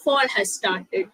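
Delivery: slowly, every word laid out; deliberate classroom example. Shown as a demonstration. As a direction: read it out slowly like a model sentence. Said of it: "American vocabulary-ല് fall ആണ് അവര് പറയുന്നത്".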